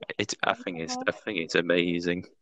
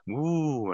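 excited whoop; 5 semitones higher, 6 dB quieter than usual. Acted. Dog cheers about the race.

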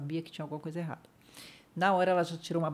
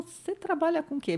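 mock surgeon; 12 semitones higher, 3 dB louder than usual. Voicing the surgeon.

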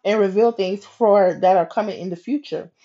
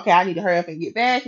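fast, hurried self-talk; racing; much faster than usual. Retold or imitated. Racing back to her car, hurried self-talk. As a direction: rattle it off as if in a rush. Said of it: "I'm racing trying to get back".

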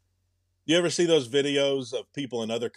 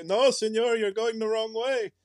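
Mexican border crosser; 9 semitones higher than usual. Pretend. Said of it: "They'll say".

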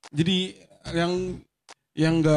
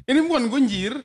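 put-on raised, louder teen slang voice; mock trendy teenager, pitched up; imitating alay slang; 6 semitones higher, 4 dB louder than usual. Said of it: "kayak ngomong yang pakai jir".

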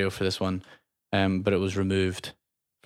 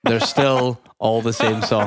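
laughing; 3 dB louder, slower than usual. Real, not acted. Joking best and worst track.

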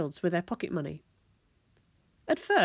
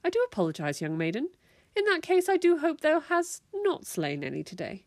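courtly apology, rising into high theatrics; hammed-up old-fashioned courtesy; mock-medieval tone; 9 semitones higher than usual. A narrator's reading. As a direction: mum playing a grand medieval lady. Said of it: "dropping her medieval tone".

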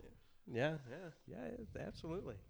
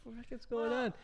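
incredulous; 9 semitones higher than usual. Retold or imitated. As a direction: ask in stunned disbelief. Retelling shock at bourbon picture.

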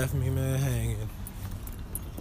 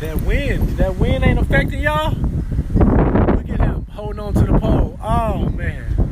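shouting over wind; 6 semitones higher, 6 dB louder, slower than usual. Real, not acted. Dad yelling in the wind.

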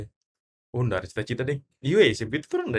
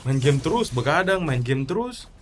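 scolding mother, pitched up; nagging parent; 5 semitones higher than usual. Acted. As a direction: nag the lazy gamer son. Mock parent scolding gamer child.

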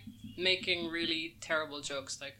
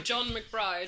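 slow, stern full-name call; stern mum; 4 semitones higher than usual. Retold or imitated. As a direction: draw out the name like a cross mum. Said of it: "that's what my mum says when she's angry".

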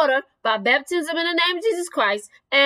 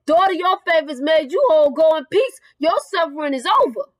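proclaiming the verse; 2 semitones higher than usual. Acted. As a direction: preach the verse out with force. Preacher repeats the verse.

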